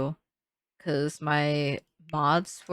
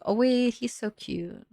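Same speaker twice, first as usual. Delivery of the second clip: sudden delight; 6 semitones higher than usual. Real, not acted. Building in the game, she spots a cute decoration and squeals. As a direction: catch sight of something cute.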